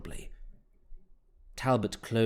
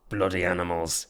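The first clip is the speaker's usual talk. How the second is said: growled under breath; 4 semitones lower than usual. Acted. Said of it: "he growled under his breath".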